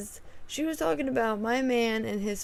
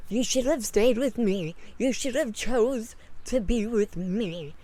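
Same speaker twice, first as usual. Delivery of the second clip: weird clingy tone. Retold or imitated. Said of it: "It just sounded so weird".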